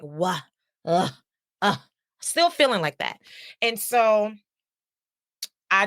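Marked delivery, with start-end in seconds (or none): 0.0-1.8 low, short mock wail and grunts; imitated whining groans. Showing viewers how she still felt, low mock groans. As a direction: act out feeling down with little groans. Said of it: "I was still feeling like".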